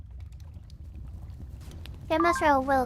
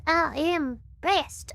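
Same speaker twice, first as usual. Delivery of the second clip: preacher; much slower than usual. Shown as a demonstration. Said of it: "preacher voice".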